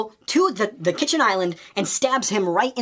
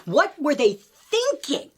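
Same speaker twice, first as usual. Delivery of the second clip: slow, higher exasperated groan of disbelief; 6 semitones higher, slower than usual. Retold or imitated. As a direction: drag it out in disbelief. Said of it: "and I'm just like".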